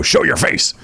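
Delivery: whispered phone assistant voice; Siri voice. Pretend. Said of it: "does Siri go".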